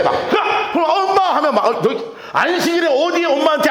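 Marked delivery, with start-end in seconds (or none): 0.3-0.7 sudden high-pitched "go away"; acted high-pitched dismissal; mock shooing. Acting out shoving crying child away. 0.9-1.4 high-pitched little cry for mother; mock child's high call; child calling mom.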